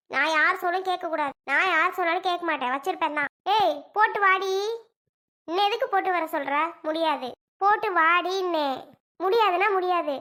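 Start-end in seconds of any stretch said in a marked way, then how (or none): 3.6-10.1 angry insisting. Acted. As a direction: dig in your heels and raise your voice. Heated quarrel over baby.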